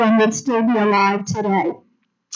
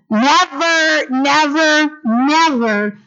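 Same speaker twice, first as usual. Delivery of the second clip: emphatic never; 5 semitones higher, slower than usual. Shown as a demonstration. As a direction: drive the word Never home to the congregation. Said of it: "Everybody say never".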